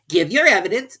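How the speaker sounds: very high, loud royal command; a pompous king giving orders; King ordering the herald to read; King's voice. A narrator's reading. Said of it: "said the king".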